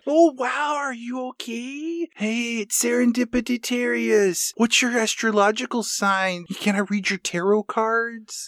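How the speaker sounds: high, soft airy space-cadet voice; ditzy hippie. Retold or imitated. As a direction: play a spaced-out new-age girl. Mocking a hippie hitchhiker.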